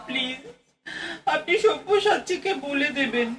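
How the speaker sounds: tearful pleading; choked-up tearful plea; crying. Acted. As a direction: plead through tears. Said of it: "আর উনি গলা ছেড়ে কাঁদতে বসলেন".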